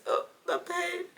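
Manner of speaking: high, drawn-out pained wail; mock anguish. Reader recalling the book's ending, in hammed-up anguish. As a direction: lament it slowly, hammed-up heartache.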